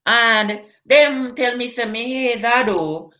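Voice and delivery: put-on evenly pitched comic Nigerian accent. Comedian telling of going to Nigeria, put-on Nigerian accent. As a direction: put on Nigerian Pidgin with a tagged-on "oh". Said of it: "I'm not sure if it's Nigerian".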